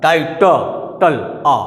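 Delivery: टाइटल split as टाई, ट, टल, then bare आ; vowel sound isolated. Shown as a demonstration. Teacher showing which vowel comes out, sounded out in parts. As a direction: draw out the आ hidden in टल. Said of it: "इसमें आ का स्वर निकल रहा है".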